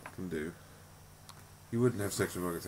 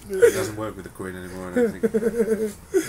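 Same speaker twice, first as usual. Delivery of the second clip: squeaky voice; 13 semitones higher, 6 dB louder, slower than usual. Acted. High silly laughing voice.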